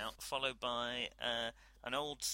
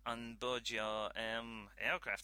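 lightly voiced French scientist, politely insistent; a touch of French accent, polite insistence; 4 dB louder, faster than usual. Scientist urging captain to keep cargo aboard, light French accent.

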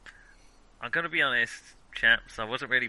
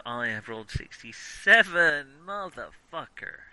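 bingo caller; slower than usual. Retold or imitated. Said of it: "what an amusing bingo caller you'd make".

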